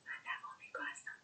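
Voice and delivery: quick breathy aside in Farsi; tossed-off whispered translation. Shown as a demonstration. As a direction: whisper the gloss fast, almost to yourself.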